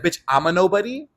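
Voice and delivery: offended, rising disbelief; retold pressed reaction. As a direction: throw it back as an affronted question. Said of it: "I literally got so pressed".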